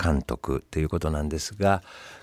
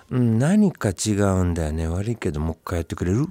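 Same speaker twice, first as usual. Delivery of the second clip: mock fussy director. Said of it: "粘着型".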